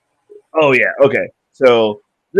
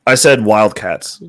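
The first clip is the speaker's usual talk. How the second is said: louder, slow and clear; clear repeat; 7 dB louder, slower than usual. Real, not acted. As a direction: say it again, clearly into the mic. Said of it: "You sound muffled as shit".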